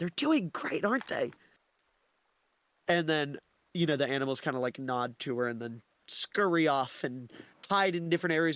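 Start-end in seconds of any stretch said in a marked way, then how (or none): 0.0-1.3 confiding, fully voiced stage whisper. Describing a scene, the speaker voices a character speaking to a woodland animal, half-whispering. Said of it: "she whispers to one of them".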